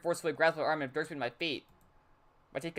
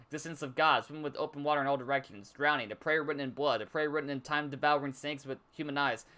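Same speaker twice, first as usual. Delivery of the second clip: poem reading. Acted. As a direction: read the poem out evenly. Reads Yuri's poem aloud.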